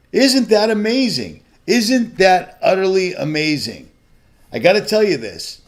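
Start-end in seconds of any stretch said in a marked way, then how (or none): 0.1-3.9 slow, bitter sarcasm; drawn-out mocking disbelief; sarcastic. Real, not acted. Sarcastic jab at the government.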